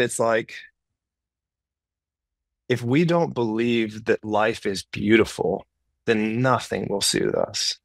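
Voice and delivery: usual speaking voice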